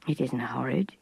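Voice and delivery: calm him down her fears in his dialect; understated gruff gentleness; gamekeeper consoling. A narrator's reading. Gamekeeper's reply.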